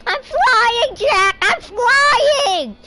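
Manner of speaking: high, loud mock-ecstatic cry; excited movie heroine. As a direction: belt it out like the film's heroine, hammed-up. Acting out the movie scene.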